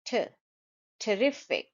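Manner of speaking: terrific with a quick "tuh" before RIF; schwa first syllable. Shown as a demonstration. Teacher models T, then terrific with schwa. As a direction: reduce the start of terrific to a schwa. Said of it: "because there is a sh sound".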